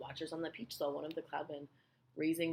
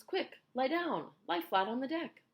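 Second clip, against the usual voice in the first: loud, high urgent orders; raised warning to take cover; cried out; 10 semitones higher, 6 dB louder than usual. A narrator's reading. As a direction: call out with drawn-out urgency. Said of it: "cried James".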